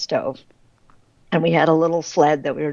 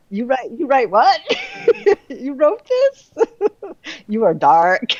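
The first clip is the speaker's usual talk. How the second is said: high, laughing mock astonishment; a lightly laughing put-on reader voice; imitating surprised readers; 9 semitones higher, 3 dB louder than usual. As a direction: play a reader shocked by the dark books. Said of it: "I get that a lot".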